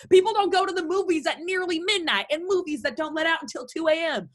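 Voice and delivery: high-pitched disbelieving scolding; indignant accusation. Acted. Mother accuses son of lying.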